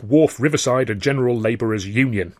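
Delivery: gatekeeper naming the union, WHARF stressed, falling; Cockney gatekeeper. Acted. Gatekeeper telling a stranger the union's full name. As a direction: say "Wharf" with weight like a gate man reciting the rules.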